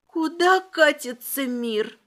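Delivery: hammed-up tearful lament; mock sob. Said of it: "старательно всхлипнула".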